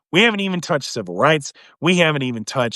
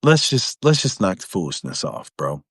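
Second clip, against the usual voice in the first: low laid-back mock truce; 9 semitones lower than usual. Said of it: "They said".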